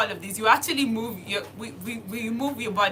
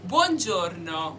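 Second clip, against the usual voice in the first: buongiorno stretched slowly sound by sound; slow, broken down; 3 semitones lower, slower than usual. Shown as a demonstration. Teacher breaking buongiorno down for learners. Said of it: "break it down so you can hear every single letter".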